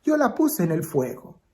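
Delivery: put-on tearful child confessing. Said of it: "la niña entre lágrimas le dice".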